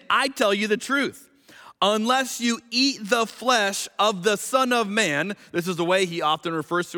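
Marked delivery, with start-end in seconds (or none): 0.1-5.3 measured, solemn Bible reading; scripture reading. Acted. Preacher reading the gospel to the congregation, solemn and measured. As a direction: read the words of Jesus with weight.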